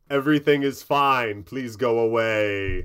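loud, curt dismissal from the door; curt gnome door. Acted. Gnome door brushing off the salesman, loud and curt. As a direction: shut him down flatly, loud.

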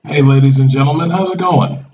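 quick, upbeat radio host greeting; radio announcer. Real, not acted. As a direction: open like a DJ on air. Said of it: "you sound like a radio announcer".

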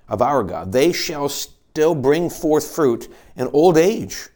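slow, measured reading of scripture, each phrase weighted. Acted. Preacher reading a psalm slowly to the congregation. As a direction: read the psalm slowly, letting each line land.

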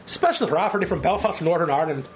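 bad Northern Irish accent; hammed-up Northern Irish accent. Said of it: "put on a really bad Northern Irish accent".

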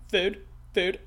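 blunt repeated one-word grunt; lightly voiced hungry storm chaser; Philip Seymour Hoffman impression. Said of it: "who I'm doing an impression of".

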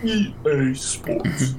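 slow breathy whisper of the brand; whispered announcer tag. Pretend. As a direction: breathe the slogan out slowly.

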